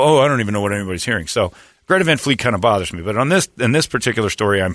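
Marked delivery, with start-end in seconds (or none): 0.0-1.3 fast, brushing it off; mock dismissive denial. Host mocking the band's denial, fast and dismissive. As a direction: rattle it off like feigned innocence. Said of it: "But then they go".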